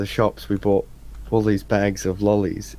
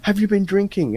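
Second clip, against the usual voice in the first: imitated cop; 10 semitones higher than usual. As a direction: grill him like the cop. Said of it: "And they're like".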